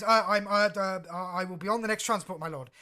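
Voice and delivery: captain panicking before her lord, stammering; terrified stammer. Acted. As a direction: babble like she's been caught red-handed. Captain groveling to Vader.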